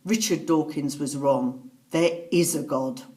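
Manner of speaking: retold last statement, measured and emphatic; clear, emphatic. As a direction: state it firmly, word by word. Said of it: "in this clear, emphatic voice".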